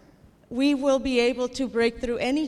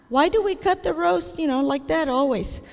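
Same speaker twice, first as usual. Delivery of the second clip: lightly acted granddaughter, pitched higher; questioning granddaughter; 6 semitones higher than usual. Comedian voices woman asking grandma about the roast, higher-pitched granddaughter.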